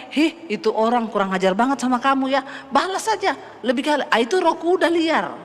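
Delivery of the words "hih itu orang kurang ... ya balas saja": tempting inner voice. Retold or imitated. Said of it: "ada suara yang bilang gini".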